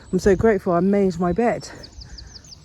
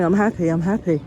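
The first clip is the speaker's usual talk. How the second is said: affirmations. Shown as a demonstration. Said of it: "So I'm just saying".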